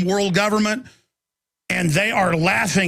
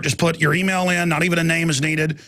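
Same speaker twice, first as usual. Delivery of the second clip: usual speaking voice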